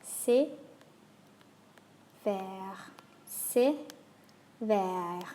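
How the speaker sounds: "c'est" short and sharp, "vers" long and open; contrasting é and è. Shown as a demonstration. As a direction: alternate sharp and open vowels. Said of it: "practice the two together".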